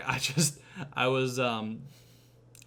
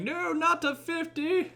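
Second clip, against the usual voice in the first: much higher, hammed-up panic; mock panicked plea. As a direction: beg as the machine ramps up. Wesley begging at torture machine.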